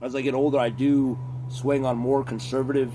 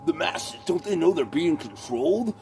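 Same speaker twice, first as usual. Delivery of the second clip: mock cynic voice; 5 semitones higher than usual. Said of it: "I used to shit on that".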